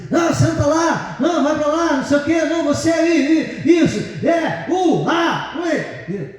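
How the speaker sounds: high, brusque orders to the guys; rough bossy guy. Retold or imitated. Friend ordering the guys around for the photo, brusque mock bossing. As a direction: bark orders at the men for the photo.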